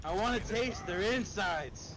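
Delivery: slow, loud, high monster growl; mock bloodthirsty. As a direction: ham it up like a bloodthirsty beast. Mock bloodthirsty gamer cry.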